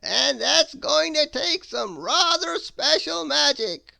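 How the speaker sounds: high, loud, slow theatrical wizard. Acted. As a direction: savour every grand word like an eccentric wizard. Wizard voice continues.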